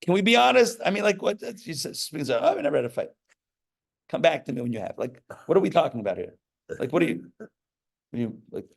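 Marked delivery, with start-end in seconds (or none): 2.4-3.1 high, breezy mock voice; mock gushing partner. Rabbi mocking a couple who never fight. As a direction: parody of a smug couple.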